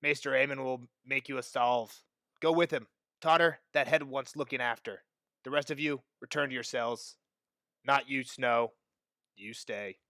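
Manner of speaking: lightly voiced, low and quiet orders; gruffly dismissive armorer. Armorer dismisses the boys but keeps Snow, low quiet orders. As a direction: issue orders low, with understated authority.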